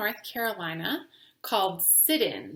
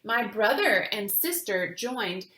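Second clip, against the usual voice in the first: put-on gentle storytelling voice for children; reading a picture book aloud. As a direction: read it like story time, clear and calm.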